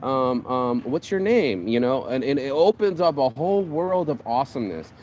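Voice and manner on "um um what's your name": grateful complimentary woman. Retold or imitated.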